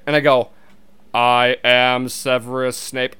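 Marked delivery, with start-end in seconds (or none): 1.1-3.2 slow, measured attempt at a film villain's voice; lightly voiced, drawn-out actor impression; a botched, slow Snape voice; Alan Rickman as Snape. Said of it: "an Alan Rickman impersonation".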